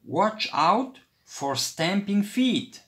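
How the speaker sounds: warning call. A narrator's reading. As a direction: call out a warning over the noise. Warning his cousin on platform.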